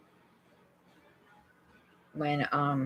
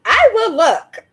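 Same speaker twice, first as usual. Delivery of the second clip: laughing; 8 dB louder, slower than usual. Real, not acted. Laughing reply to viewer.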